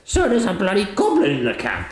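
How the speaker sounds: Ajax's line. Acted. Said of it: "Ajax turns and says".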